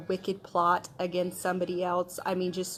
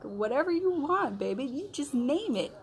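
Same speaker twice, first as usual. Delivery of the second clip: casual king; 6 semitones higher than usual. Retold or imitated.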